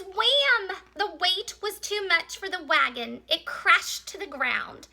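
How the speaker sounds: high punched crash word, settling into narration; dramatic story reading. Acted. Teacher reads the wagon's crash to children, dramatic story reading. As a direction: tell the crash for young children.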